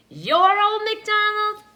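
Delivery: high, loud disbelief; shocked at the sight of him; loud, high astonished witch; surprised witch. A narrator's reading.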